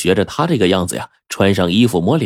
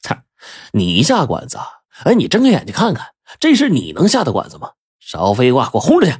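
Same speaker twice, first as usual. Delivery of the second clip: scornful, pitch swinging upward; mock him, then order him out; mild contemptuous sneer; 5 semitones higher than usual. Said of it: "他就冷笑".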